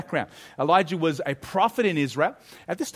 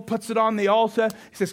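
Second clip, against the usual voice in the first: ordinary talk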